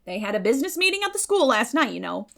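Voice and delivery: hearty, opinionated neighbour, loud and high; Mrs Lynde's voice. A narrator's reading.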